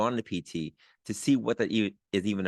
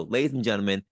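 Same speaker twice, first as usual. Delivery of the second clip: emcee announcement. Acted. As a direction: boom it out like a show host. Host announces guest like emcee.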